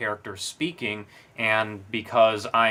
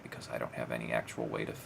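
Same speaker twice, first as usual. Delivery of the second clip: trailing off quietly; 11 semitones lower, 13 dB quieter, much faster than usual. Shown as a demonstration. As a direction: lower and softer, fading out fast. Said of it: "let my voice kinda trail off and get really quiet".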